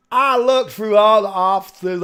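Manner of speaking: loud, slow put-on American redneck voice; hammed-up American redneck witness quote; redneck accent.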